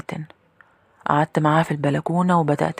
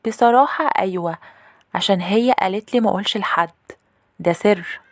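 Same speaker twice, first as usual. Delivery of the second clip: put-on higher, confiding little girl voice; little sister; 4 semitones higher than usual. Little sister admits a secret to her older sister, higher girlish voice. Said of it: "أختي الصغيرة ... ردت عليا وقالت لي".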